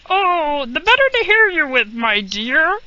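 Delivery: the wolf purring his answer, lightly put on; sly wolf. A narrator's reading. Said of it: "said the wolf".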